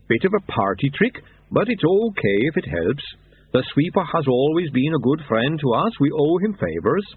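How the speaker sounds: Yeti kindly explaining, voice a little altered; lightly voiced Yeti. Yeti tells the monks about the sweeper, lightly voiced Yeti.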